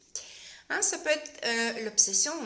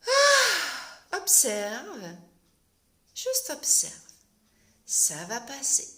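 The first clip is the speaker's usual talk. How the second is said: soothing yourself, first hushed then gentle; calming self-talk; 3 dB louder, slower than usual. Shown as a demonstration. Host showing how to calm herself, gently reassuring. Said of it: "t'arrives à dire".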